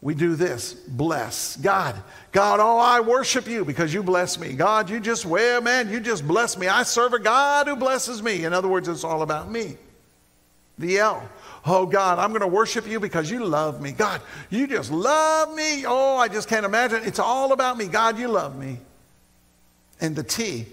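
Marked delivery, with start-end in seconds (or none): 1.6-8.4 selfish worshipper. Retold or imitated. Preacher mocking a selfish churchgoer's prayer, gushing. 11.6-18.8 selfish worshipper. Retold or imitated. Preacher mocking a selfish churchgoer's prayer, gushing.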